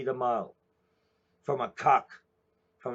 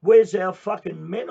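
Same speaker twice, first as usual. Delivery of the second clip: shouted much louder and higher; angry shout; 5 semitones higher, 10 dB louder than usual. Real, not acted. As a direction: hurl it at the audience as a challenge. Shouted challenge to women.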